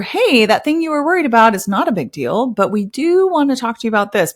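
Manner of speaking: lifted, light reassuring tone; how a kind doctor should sound; gentle bedside manner. Pretend. Mock-gentle doctor breaking news kindly to patient. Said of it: "Where's your bedside manner?".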